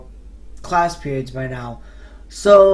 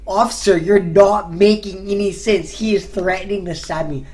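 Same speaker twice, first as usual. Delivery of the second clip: firm, raised-voice objection; exasperated protest; 2 semitones higher, 4 dB louder than usual. Retold or imitated. Telling the officer the threat is serious, exasperated. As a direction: press each word at the officer, exasperated.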